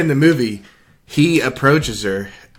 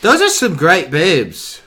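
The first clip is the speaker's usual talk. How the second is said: attempted Jamaican accent; 5 semitones higher, 3 dB louder, slower than usual. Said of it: "my, uh, Jamaican accent".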